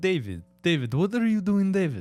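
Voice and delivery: put-on Slavic voice. Showing the others a voice he can do: put-on Slavic accent. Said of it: "I can do David Slavic".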